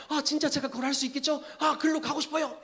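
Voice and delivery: eager believer. Acted. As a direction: ask like a fired-up new believer. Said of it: "달려가고 싶게 돼요".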